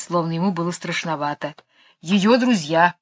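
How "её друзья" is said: cobra voice. A narrator's reading. Cobra repeats words.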